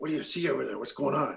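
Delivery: fast, loud stage whisper. Game master voicing someone on a walkie-talkie to the players, loud whisper. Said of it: "sort of a loud whisper".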